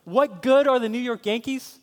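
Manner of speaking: indignant echo, high and loud, rising at the end; Kenneth Maresco. Acted. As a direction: throw the insult back as a worked-up fan. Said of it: "he's getting passionate about it".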